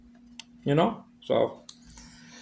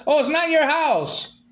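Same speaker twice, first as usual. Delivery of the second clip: mocking her words; 5 semitones higher, slower than usual. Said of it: "mimicking her line".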